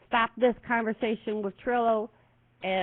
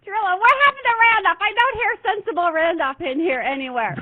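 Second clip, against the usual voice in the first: high, fast, playful complaint; mock exasperation; 10 semitones higher, 6 dB louder than usual. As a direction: tease him with exaggerated dismay. Teasing Trillo about missing Randolph.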